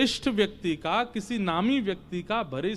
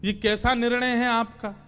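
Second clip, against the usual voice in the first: exasperated complaint; 3 semitones higher than usual. Acted. Arjun complains of contradictory orders.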